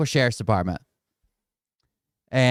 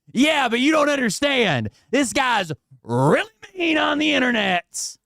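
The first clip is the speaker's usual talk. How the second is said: much higher, whiny put-on voice; whiny mock pleading; 11 semitones higher than usual. Streamer voicing Bert begging the judge, high and whiny. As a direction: beg like a caught kid.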